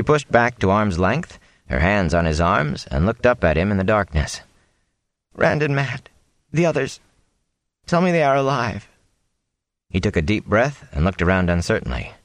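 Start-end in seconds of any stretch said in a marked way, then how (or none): 5.3-8.9 put-on young woman's plea. A narrator's reading. Egwene pleads for her friends.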